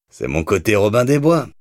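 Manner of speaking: a touch of dry irony; ironic. Acted. Gangster mocking himself to the cop, mildly ironic. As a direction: toss it off with mild sarcasm. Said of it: "ironisa Doyle".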